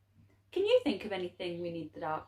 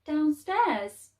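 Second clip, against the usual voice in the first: surprised Laszlo; 6 semitones higher than usual. Acted. Boy surprised by the answer.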